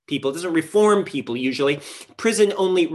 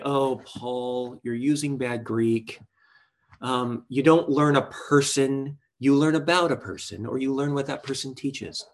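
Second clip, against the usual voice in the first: mocking grammar pedant voice; 3 semitones lower than usual. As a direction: play the eye-rolling Greek grammarian, a bit lower. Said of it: "I don't know why I used that voice right there".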